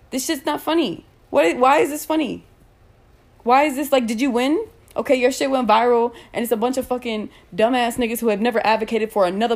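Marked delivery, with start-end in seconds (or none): 0.1-8.2 angry disbelief. Real, not acted. A streamer confronting viewers who laughed, angrily. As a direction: demand why they find it funny.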